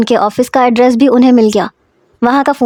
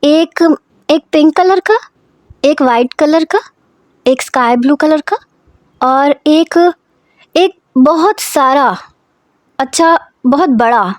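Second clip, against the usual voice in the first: put-on a slightly raised, slowing child's voice counting on her fingers; childlike counting; 4 semitones higher than usual. Girl counting teddy bear colours, childlike and slowing. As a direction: count off wishes like a little girl, drawing out the last. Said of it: "انگلیوں پہ گنوانے لگی".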